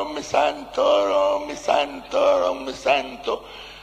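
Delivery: high, drawn-out imitated woman; hammed-up female whine, slow and sustained; mock whining refusal. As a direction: wail it way up high, stretching each refusal. Mimics her refusing, high and drawn out.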